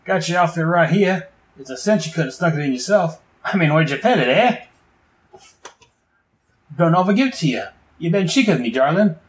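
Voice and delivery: lightly voiced cheeky crook teasing; Boomerang voice. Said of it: "He's like".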